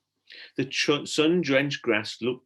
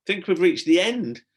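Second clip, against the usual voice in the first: higher, louder call; 8 semitones higher, 7 dB louder than usual. A narrator's reading. Stella to Tom on the ladder, calling up. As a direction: call it up the shaft. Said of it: "she called".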